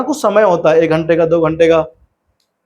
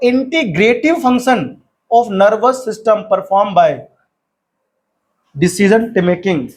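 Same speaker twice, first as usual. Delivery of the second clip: very slow, word by word textbook reading; slow dictation reading; much slower than usual. Acted. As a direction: read it out slowly so students can write. Reads textbook line slowly.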